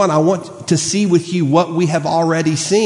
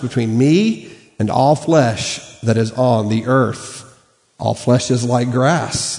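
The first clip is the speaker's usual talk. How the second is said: measured, solemn Bible reading; scripture reading. Acted. Pastor reading Genesis to the church, measured and solemn.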